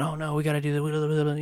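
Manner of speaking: imitating a frazzled new parent; mock panic. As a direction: reenact a flustered, panicked scramble. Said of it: "you're just going crazy".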